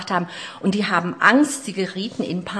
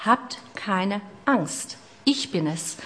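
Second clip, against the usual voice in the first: very slow, calm and reassuring; reassuring Jesus; much slower than usual. Acted. Jesus calming his disciples in the storm, slow and reassuring. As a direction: soothe frightened men, slowly.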